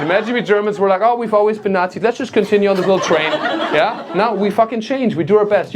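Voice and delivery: loud, hammed-up indignation; mock bothered rant. German comedian scolding an unpunctual Brazilian, loud mock outrage. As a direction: lecture at full volume in comic outrage. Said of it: "That really bothers me now".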